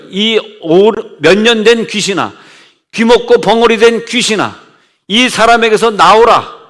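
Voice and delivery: a measured, commanding exorcism, slowing at the end; name the spirit and order it out; commanding rebuke. Retold or imitated. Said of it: "자, 호통치고". (귀신을 꾸짖는 명령조)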